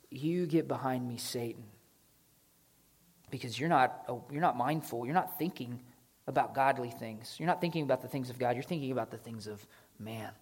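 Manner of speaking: low, soft and stern; a soft, low stern correction; quiet rebuke. Acted. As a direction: rebuke him under your breath. Jesus rebukes Peter.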